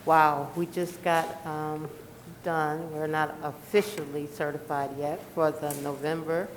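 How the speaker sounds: muffled through a face mask; speaking through a face mask. Real, not acted. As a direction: talk through a mask over your mouth. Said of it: "Hope you can hear me with this mask on".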